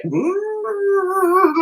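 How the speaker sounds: high "woo" as a plant slides; playful sliding "woo"; mock whoosh. Plant rolling on the ship, mock whoosh. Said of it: "like that".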